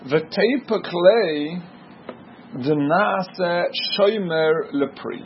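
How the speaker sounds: slow, drawn-out study-hall intonation; Talmud reading singsong. Real, not acted. Teacher reads the Gemara's third line to students, slow singsong. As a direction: read the text out slowly, stretching the words.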